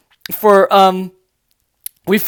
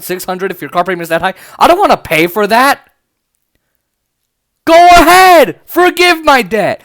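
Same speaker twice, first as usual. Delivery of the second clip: excited public. Retold or imitated. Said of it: "American people going".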